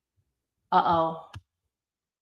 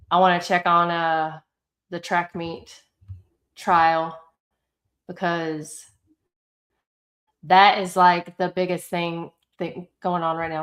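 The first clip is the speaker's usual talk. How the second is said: thick, swollen-tongue speech; talking with a swollen tongue. Real, not acted. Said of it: "Sorry, I sound weird still. My tongue is still swollen".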